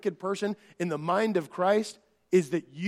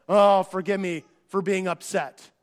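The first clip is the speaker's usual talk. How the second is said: rote apology. Retold or imitated. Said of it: "I would often say things like this".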